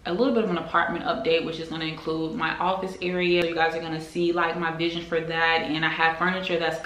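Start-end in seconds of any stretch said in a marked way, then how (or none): none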